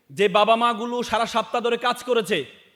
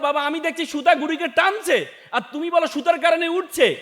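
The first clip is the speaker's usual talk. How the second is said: put-on higher-pitched childlike protest; puzzled objection; 5 semitones higher than usual. Son disputes father's claim about the kite string, puzzled objection. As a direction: object in a raised, questioning pitch.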